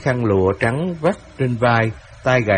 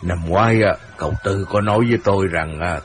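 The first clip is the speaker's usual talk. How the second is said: sly amusement; 4 semitones lower, 3 dB quieter than usual. Acted. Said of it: "ngó vợ cười".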